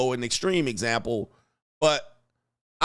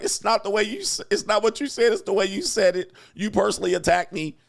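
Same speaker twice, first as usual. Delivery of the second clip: higher-pitched imitation of an aggrieved partner; mock offended woman; 6 semitones higher than usual. Woman objecting to how her man said it, mock offended. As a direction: complain like a hurt wife, played for mockery. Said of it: "And then she's like".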